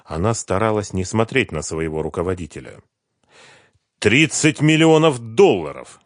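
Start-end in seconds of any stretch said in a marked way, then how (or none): 4.0-6.0 slow, loud and angry, pitched up; furious boss, slowed for weight; angry declaration. A narrator's reading. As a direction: spit out the sum in outrage. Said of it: "гневно заявил".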